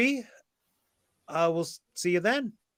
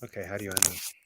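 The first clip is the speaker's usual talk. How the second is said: soft, groggy hungover starlet voice; Audrey Hepburn hungover; 5 semitones lower, 11 dB quieter, faster than usual. Acted. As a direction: sluggish morning-after elegance, barely awake. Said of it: "I'll do my Audrey Hepburn hungover impression".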